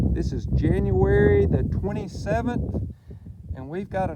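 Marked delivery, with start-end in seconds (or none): 0.1-2.9 loud, slow and raised; shouting over wind. Real, not acted. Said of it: "I hope you can hear me over the".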